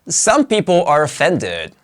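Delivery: "Some" stands out at the start; stress on SOME. Shown as a demonstration. Teacher reading an example where some is a content word, stress on "Some". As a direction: put the weight on "Some". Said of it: "It emphasizes the main idea".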